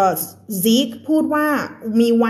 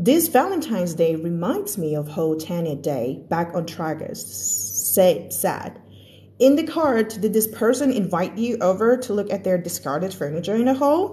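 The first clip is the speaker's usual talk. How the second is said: natural-speed connected read; quick native-speed read; fast reading; much slower than usual. Shown as a demonstration. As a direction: run the words together like a native. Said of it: "จะอ่านให้ฟังแบบเร็วๆ".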